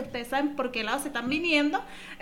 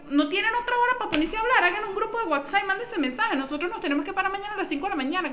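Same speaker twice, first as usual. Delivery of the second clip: higher-pitched retold gripe; exasperated complaint; 6 semitones higher than usual. Fed-up tenant griping about housemates talking at night, exasperated. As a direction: vent indignantly, pitched up.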